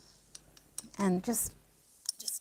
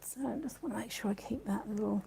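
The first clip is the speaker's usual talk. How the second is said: whispered; 9 dB quieter, faster than usual. Real, not acted. Careful with wooden pen.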